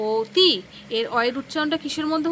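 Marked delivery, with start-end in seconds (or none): 0.1-0.5 অতি with its first vowel said as o, up high and loud; pronunciation demo. Shown as a demonstration. Teacher shows the class how অতি is really said, called out high. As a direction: call out অতি as oti for the class. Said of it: "উচ্চারণে কি বলতে হবে?".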